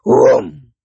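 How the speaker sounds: low whooshing "whoom"; drawn-out booming sound effect; imitated boom. A narrator's reading. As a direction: voice the thud of a heavy lid as a big whoom. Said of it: "with a huge whoom".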